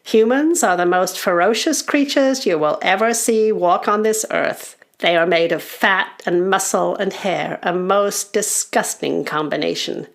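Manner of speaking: lightly voiced, relishing elder storyteller; goblin uncle. Goblin uncle describing humans to goblin children, ominous storyteller. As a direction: tell it as a grisly warning. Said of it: "says the uncle".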